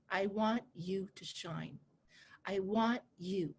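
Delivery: sincere. Real, not acted. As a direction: say it from the heart. Heartfelt wish to students.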